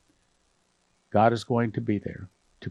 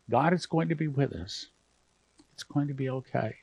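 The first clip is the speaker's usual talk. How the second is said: holding back tears; 6 dB quieter than usual. Real, not acted. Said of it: "I'm trying not to get emotional here".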